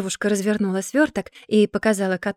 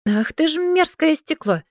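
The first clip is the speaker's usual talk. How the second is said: hissed curse; 7 semitones higher than usual. A narrator's reading. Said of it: "прошипела Сашка".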